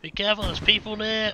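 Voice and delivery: high loud urgent warning; man down shout. Real, not acted. Downed, warning teammates.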